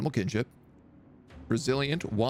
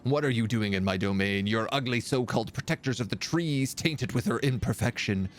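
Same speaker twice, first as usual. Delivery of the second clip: haughty villain. Acted. Reads villain Nemu's speech.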